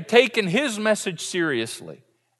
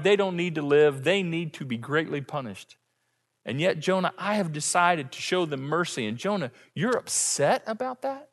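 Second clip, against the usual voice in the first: gentle God; 4 dB quieter than usual. Retold or imitated. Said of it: "The Lord replied".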